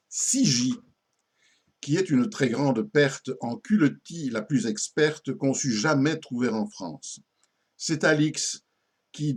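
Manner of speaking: put-on old French verse declaimed line by line; comic poem recitation. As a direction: recite a mock epitaph with pauses between phrases. Lit une épitaphe comique en vers. (récitation d'un poème comique)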